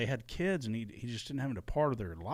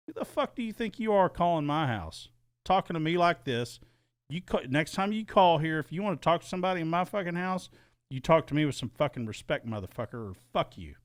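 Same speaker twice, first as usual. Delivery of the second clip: higher pitched, heated retort to the caller; retold angry comeback; 5 semitones higher than usual. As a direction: give it back hot, like on the phone that day. Retold angry phone quarrel.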